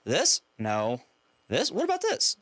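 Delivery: high, teasing questions, mock innocent; pestering son. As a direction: imitate the boy pestering on purpose. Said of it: "he's like".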